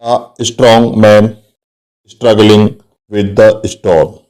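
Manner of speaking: very slow, with the st sounds of "strong", "struggling" and "storm" leaned on; teacher showing the repeated st sound to the class, slowly and clearly; slow example read. Shown as a demonstration. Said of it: "देखिए, स्टॉर्म, स्ट्रगलिंग".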